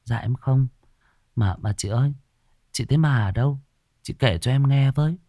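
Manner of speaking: mildly nervous, coaxing curiosity; timid. Acted. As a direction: ask shyly, with small pauses. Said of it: "Hằng rụt rè".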